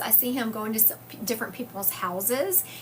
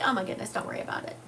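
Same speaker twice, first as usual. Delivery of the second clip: casual reassurance; 3 dB quieter, much faster than usual. Retold or imitated. Patient telling the nurse not to worry, quick casual reassurance. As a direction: wave it away fast and easy. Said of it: "I was like".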